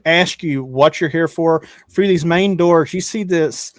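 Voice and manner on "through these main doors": ordinary talk, nothing marked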